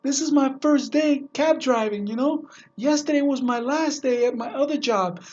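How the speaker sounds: a hint of an embarrassed driver owning up; sheepish cab driver. Cab driver explaining himself to his passenger, sheepish. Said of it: "the cab driver goes".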